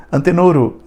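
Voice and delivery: "Antenoro" with an added final vowel; Japanese accent. Retold or imitated. Teacher mocking the epenthesis, Japanese accent. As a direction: repeat the Japanese-accented name, tagging on an o. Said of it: "isso é uma epêntese".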